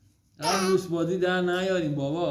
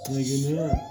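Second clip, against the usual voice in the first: put-on very high, tiny toddler voice; playful high-pitched mimic of a toddler; squeaky baby voice; slower than usual. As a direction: echo her like a little girl squeaking. Father mimics child's tiny voice.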